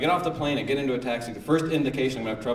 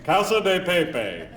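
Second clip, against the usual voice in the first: Casa de Pepe spelled out slowly, much higher, syllable by syllable; sounded-out Spanish; 9 semitones higher, slower than usual. Shown as a demonstration. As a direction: overdo each Spanish vowel. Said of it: "every vowel is a syllable".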